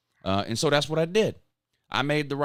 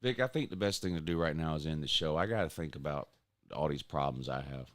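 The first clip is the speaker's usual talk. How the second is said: mock tore up; 9 semitones lower, 8 dB quieter than usual. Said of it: "I'm pretty tore up about it".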